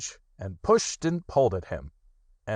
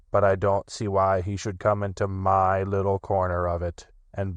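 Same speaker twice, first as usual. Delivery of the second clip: gloomy Eeyore. Acted. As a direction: sulk it out as Eeyore. Eeyore complains.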